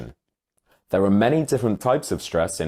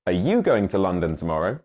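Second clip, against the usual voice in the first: "you" clearly stressed, tune rising; extra stress on you; 2 semitones lower, faster than usual. Shown as a demonstration. Narrator models the sentence once more for learners. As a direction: put the weight on "you". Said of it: "Try one more time".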